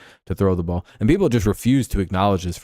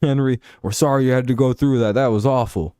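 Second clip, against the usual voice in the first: lightly voiced fan, pitched up; a hint of a higher-pitched sympathetic fan; imitating welcoming fans; 4 semitones higher than usual. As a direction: play a fan greeting a returning player. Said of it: "Raiders fans, they'd be like".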